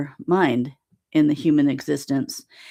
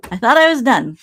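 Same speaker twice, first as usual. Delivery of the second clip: laughing; 7 semitones higher, 7 dB louder than usual. Real, not acted. Laughs about writing another book.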